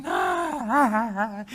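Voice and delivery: loud, high melodramatic sobbing wail; imitating a child's exaggerated soap-opera bawl; mock telenovela wailing. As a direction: ham up the crying like a soap opera. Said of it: "así como si fuera, este, telenovela".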